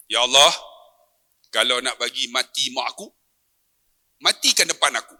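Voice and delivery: measured, low-pitched plea in short phrases; retold prayer. Son retelling his prayer for his sick mother, low measured plea. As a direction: pray it low, pausing between phrases. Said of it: "Masa tu saya doa".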